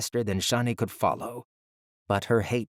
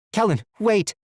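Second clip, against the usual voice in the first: high pleading shout; desperate cry; 12 semitones higher, 6 dB louder than usual. Acted. Sister pleads as brother leaves.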